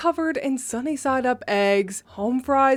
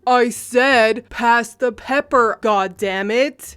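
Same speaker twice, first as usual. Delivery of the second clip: louder barked order, dragging the last words slowly; barked demand; 6 dB louder, slower than usual. Retold or imitated. A loud man barking at strangers for the pepper. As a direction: bark it at the table like a furious diner. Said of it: "he barked".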